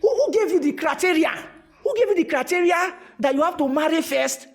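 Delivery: loud, rising challenge; challenging outburst. Real, not acted. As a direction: demand an answer from the crowd. Challenging the audience's belief.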